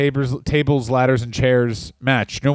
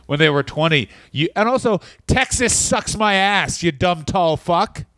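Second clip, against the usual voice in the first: mock challenge to JBL.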